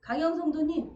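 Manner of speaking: loud, high call across the room. Real, not acted. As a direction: call her name out to the back pews. Calling out to a congregant.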